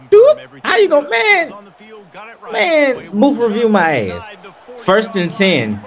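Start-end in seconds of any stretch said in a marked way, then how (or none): 0.1-4.3 outraged. Real, not acted. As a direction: protest the bad call. Outraged at a call.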